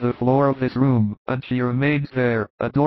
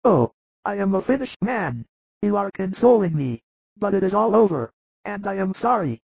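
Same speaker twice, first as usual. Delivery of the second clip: much higher, weak sick man, tender and grateful; frail Lazarus; 8 semitones higher than usual. Acted. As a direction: feeble high voice of a sick man. Lazarus lamenting his end.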